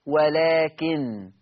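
ولكن slow, with a light noon and no nasal hum; Warsh pause, no ghunna. Shown as a demonstration. Teacher showing the Warsh stop on ولكن. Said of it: "نون مخففة بدون غنة".

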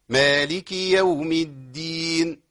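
slow, measured recitation; Quran recitation. Shown as a demonstration. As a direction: recite slowly, watch the dal. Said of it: "ده عندي مشكلة تانية". (تلاوة متأنية)

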